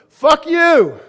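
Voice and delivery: explosive high yell, full force; angry shout. Acted. The client's angry salamander brain lashing out at the offer, furious shout. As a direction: snarl it out like a cornered lizard. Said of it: "their angry salamander goes".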